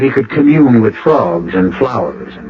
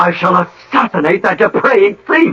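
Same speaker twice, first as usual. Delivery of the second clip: melodramatic threat; 9 semitones higher than usual. Acted.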